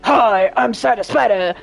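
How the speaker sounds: a hint of a gravelly gamer guy. Mocking a Final Fantasy streamer, lightly gravelly intro. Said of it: "males that sound gravelly voiced like Cider Spider".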